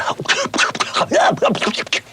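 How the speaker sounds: imitated jalopy coughing and spluttering; sputtering car noise. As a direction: splutter like a failing engine. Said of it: "he did that famous car".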